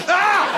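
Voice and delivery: sudden very high scream; startled high-pitched yelp, acted; short shriek of "Ah"; retold scream. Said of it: "I screamed really loud".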